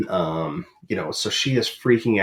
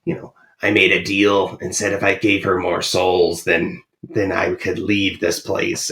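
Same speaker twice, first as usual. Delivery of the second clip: creepy voice. Retold or imitated. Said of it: "she has this really creepy voice".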